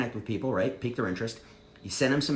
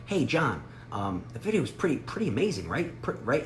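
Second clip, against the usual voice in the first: professional. Shown as a demonstration. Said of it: "Or professional".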